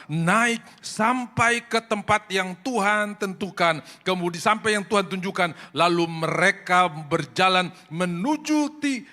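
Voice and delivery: loud, high, slow preaching cry; fervent preaching. Acted. Preacher proclaiming to the congregation in a loud, high, slow cry. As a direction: preach it out with full force. Preaching at full force, scripture story.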